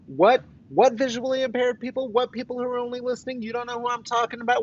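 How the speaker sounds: high, incredulous mock question voice; mock puzzled viewer. Mocking questions from imagined viewers.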